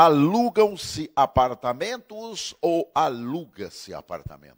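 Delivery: pergunta lenta. Shown as a demonstration. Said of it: "Tem gente que fica naquela dúvida".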